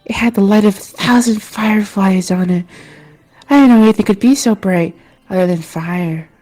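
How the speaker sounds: a hint of a dreamy local; villager voice. Same villager describing sword.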